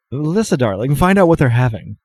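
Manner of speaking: lilting, affectionate bartender instruction; flamboyant bartender. Acted. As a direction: send them off with a flourish. GM voices flamboyant bartender Jan.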